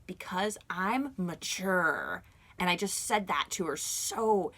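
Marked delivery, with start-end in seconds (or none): 0.0-2.2 drawn out, slow and calm; calm and mature to the old lady; slow, composed. Retold or imitated. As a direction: lay it down slowly and calmly. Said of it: "I was like".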